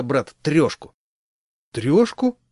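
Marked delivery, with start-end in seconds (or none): 1.7-2.4 high rising astonished question; mock amazement, high and rising. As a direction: sound amazed, voice jumping much higher. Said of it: "как обычно изумился он".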